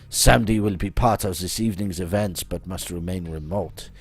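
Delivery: put-on theatrical French-accented schemer. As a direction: announce the plan in a hammy French accent. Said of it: "my accent".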